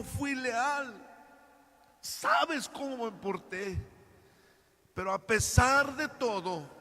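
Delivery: crying. Acted. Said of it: "llorando le dice".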